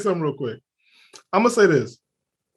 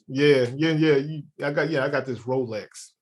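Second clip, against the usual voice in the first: mock sarcastic reply; 5 semitones lower, 5 dB quieter than usual. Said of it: "that's my sarcasm".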